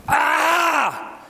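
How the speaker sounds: high, loud anguished cry; breaking-down scream; retold scream. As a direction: let out a raw cry as you collapse. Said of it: "bin zusammengefallen und habe geschrien".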